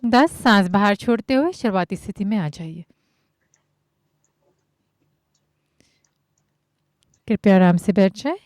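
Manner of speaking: measured count-led cueing with long pauses; yoga instruction. Acted. Yoga teacher guiding students breath by breath, measured instruction. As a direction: call out each movement evenly, step by step.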